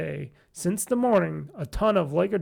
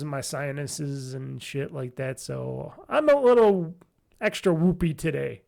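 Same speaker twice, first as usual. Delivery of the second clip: nasally voice; 4 semitones lower than usual. Real, not acted. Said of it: "my nasally drone voice is different-ish".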